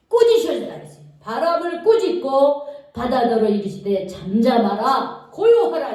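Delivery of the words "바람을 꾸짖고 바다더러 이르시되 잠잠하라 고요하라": firm, loud command to the sea. Acted. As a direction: rebuke the wind with authority. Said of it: "이렇게 딱 명령을 내리셔요". (바람을 꾸짖는 단호한 명령조)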